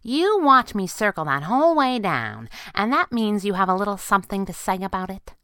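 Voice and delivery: a hint of a pert sidekick; girl sidekick.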